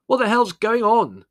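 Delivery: high, loud outrage; indignant demand. A narrator's reading. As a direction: demand to know who dared disturb you. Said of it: "Larry sat up indignantly".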